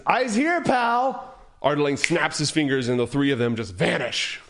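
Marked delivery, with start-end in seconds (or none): 0.1-1.3 a hint of a snappy halfling, higher; halfling demanding attention; gruff halfling. A narrator's reading. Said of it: "the halfling says".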